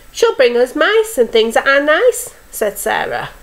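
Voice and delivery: expressive storyteller with lifted owl lines; story reading to children. A narrator's reading. Teacher reads owl story to young children, expressive storytelling. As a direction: read a picture book to little ones.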